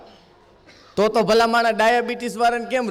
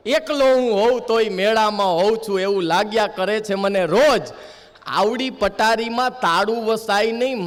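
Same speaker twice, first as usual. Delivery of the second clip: poem recital. Acted. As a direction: recite it gently, savoring each line. (કવિતાનું ધીમું, ભાવભર્યું પઠન)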